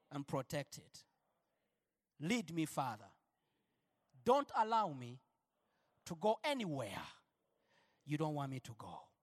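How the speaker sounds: hushed congregational prayer; led prayer. Shown as a demonstration. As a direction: pray it gently, line by line. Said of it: "Raise your hands and say".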